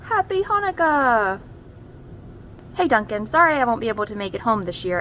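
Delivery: a lightly voiced chatty crayon joking; gray crayon voice. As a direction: read like a friend cracking a pun.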